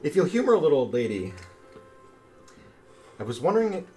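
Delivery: man doing a woman's voice; lightly voiced sweet granny; creaky warbling old lady. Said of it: "warbling little lady voice".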